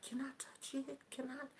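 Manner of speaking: soft, shy whisper, barely voiced; timid whisper. Shy Japanese girl asking to touch her dreadlocks, timid whisper. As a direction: ask it in a hushed, timid breath. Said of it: "she was all quiet and timid".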